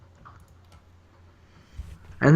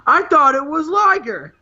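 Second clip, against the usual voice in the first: much higher, mock baffled commentator; a lightly voiced bewildered announcer; Tony Schiavone; 11 semitones higher than usual. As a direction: squeal it like a confused announcer. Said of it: "Tony Schiavone was like".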